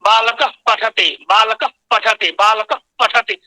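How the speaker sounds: बालकः with a very faint lip puff before पठति; बालकः ending in a subtle bilabial breath; subtle lip visarga. Shown as a demonstration. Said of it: "बहुत सूक्ष्म ध्वनि निकलती है".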